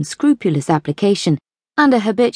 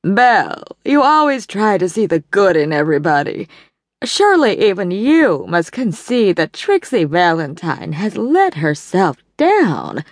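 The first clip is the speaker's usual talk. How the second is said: a stern matron who won't let it go; insisting; 2 semitones higher than usual. A narrator's reading. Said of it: "Evelyn insisted".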